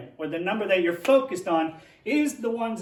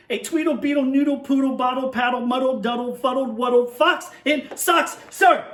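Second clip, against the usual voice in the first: rising to a loud, high sir; emphatic finish; 4 semitones higher, 4 dB louder than usual. Shown as a demonstration. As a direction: build to a big exclamation on sir. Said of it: "I said it like that because there was an exclamation point".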